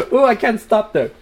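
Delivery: crunching chips mid-sentence; chewing while talking. Real, not acted. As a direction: talk through a mouthful of chips. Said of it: "I'm crunching on potato chips".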